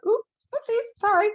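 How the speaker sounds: very high, cutesy sheepish apology; a told-off kid squeaking sorry; sheepish child. Retold or imitated. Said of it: "I've been kind of like".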